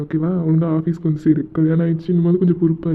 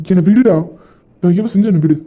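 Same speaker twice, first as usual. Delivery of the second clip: angry push away; 5 dB louder than usual. Acted. Pushes friend away, angry.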